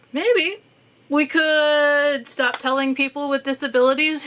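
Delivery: mock-hopeful, biting suggestions; sarcastic wishful proposals. Real, not acted. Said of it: "I say maybe in a sarcastic sense".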